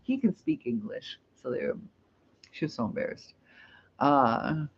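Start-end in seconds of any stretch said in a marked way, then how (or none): 0.0-1.2 retelling coworkers who laugh mid-sentence; chuckling at the misunderstanding. Retold or imitated. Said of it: "And they start laughing".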